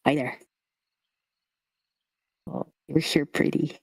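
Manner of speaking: lightly voiced lisping skull creature; lisping scarecrow kid. Chatty kid greets Lulu by the water, lisping. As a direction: talk with a childlike lisp. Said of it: "The lisp".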